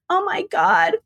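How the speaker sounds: imitated tearful distress. Retelling a crying relative's phone call, mildly distraught. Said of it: "She's crying again".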